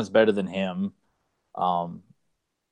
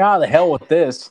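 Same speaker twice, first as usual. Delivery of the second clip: exasperated giving up; 7 semitones higher, 7 dB louder than usual. Acted. Voices villain giving up.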